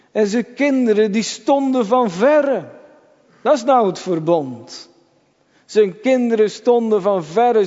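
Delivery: a fervent sermon climax; impassioned preaching. Acted. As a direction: preach it with rising urgency. Preacher rises in intensity.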